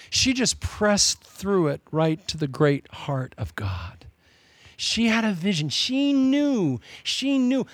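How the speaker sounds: slow unvoiced whisper. Real, not acted. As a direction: breathe it out slowly, almost secret. Whispered line in sermon.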